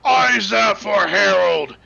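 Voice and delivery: slow, eerie mad proclamation; drawn out like a deranged oracle; cursed gibberish voice. Acted. GM voices cursed NPC nonsense.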